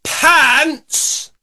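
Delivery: very slow, drawn out; slow, emphatic dictation. Shown as a demonstration. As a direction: stretch each word so she can copy. Host dictates slowly for repetition.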